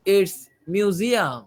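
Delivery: "It's museum" drawn out, then stop briefly; answer intonation with pause. Shown as a demonstration. Teacher showing listening students how an answer pauses, "museum" set off slowly. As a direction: give "museum" as the answer, then leave a small breath gap. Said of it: "হয়ে একটু থামবো".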